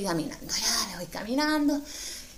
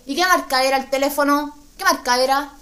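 louder, nosy driver asking; loud nosy question; 2 semitones higher, 6 dB louder than usual. Retold or imitated. Bus driver asking the phone brand, loud and nosy. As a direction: call out the question from the front.

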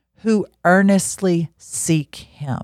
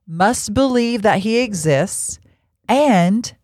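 slow, weighty verse reading; solemn Bible reading to the congregation; scripture reading; 3 semitones higher, slower than usual. Acted. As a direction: read it out word by word, like scripture. Reads the verse aloud slowly.

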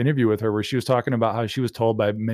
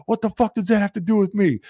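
high-pitched mock outrage; indignant impression, voice pushed way up; imitated rant; 10 semitones higher than usual. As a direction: rant it like an exasperated comic. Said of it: "He goes off on this rant".

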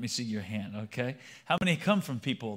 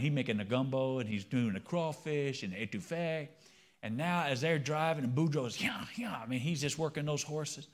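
put-on Cajun accent. Pastor telling the crowd a Cajun joke, Cajun accent. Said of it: "start talking like a Cajun".

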